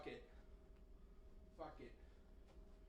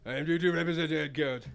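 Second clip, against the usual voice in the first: British accent; 2 semitones higher, 6 dB louder, faster than usual. Shown as a demonstration. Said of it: "I thought we were British".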